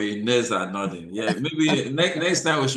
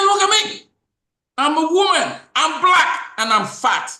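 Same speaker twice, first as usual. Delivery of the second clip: much higher and louder, voicing her cry; retold despair; 12 semitones higher, 6 dB louder than usual. Host voicing the bank woman's anguish, loud high cry. Retelling her words again, intensely.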